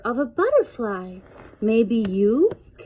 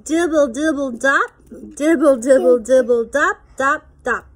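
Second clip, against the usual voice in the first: rain sounds; 4 dB louder than usual. Pretend. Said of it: "He can sound like the rain".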